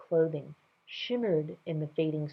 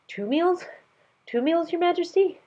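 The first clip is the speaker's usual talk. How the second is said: faint question; 13 semitones higher, 4 dB louder than usual. Acted. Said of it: "faintest question in his voice".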